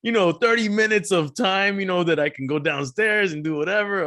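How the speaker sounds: high, giddy mock excitement; mock himself gleefully; imitating himself. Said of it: "because you're like".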